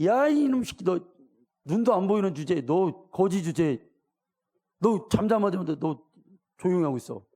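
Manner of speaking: mock crowd telling a blind man to shut up; crowd scolding. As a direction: hush him down like a rude crowd. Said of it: "혼낸단 말이에요".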